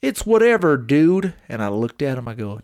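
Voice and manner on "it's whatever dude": higher, shrugging brush-off; mock careless dude; line-skipping country guy. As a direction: toss it off like it doesn't matter, higher. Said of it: "he looks back at me and he goes".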